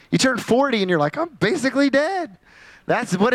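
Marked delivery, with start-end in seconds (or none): 1.2-2.4 high-pitched comic wail; hammed-up hopeless complaint, pitched up; mock despair. Preacher voicing someone turning forty, mock-despairing high voice.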